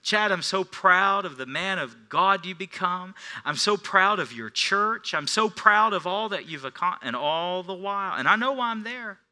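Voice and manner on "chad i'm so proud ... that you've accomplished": a hint of an excited, higher friend. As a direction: lightly voice his proud excitement. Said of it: "he's all excited".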